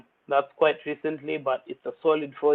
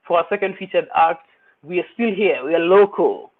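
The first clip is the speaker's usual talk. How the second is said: hyped emcee call-out; 2 semitones higher, 6 dB louder than usual. Real, not acted. MC hyping the second act.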